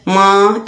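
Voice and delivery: माँ with the sound going into the nose, Urdu-style; nasal wrong way. Shown as a demonstration. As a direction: let माँ ring nasally like Urdu mother. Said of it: "ऐसे नहीं बोलना".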